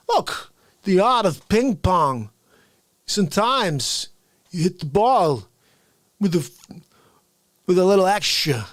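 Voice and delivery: creepy villain voice. Retold or imitated. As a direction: savour each phrase like a creepy sensei. Walken scary guy impression.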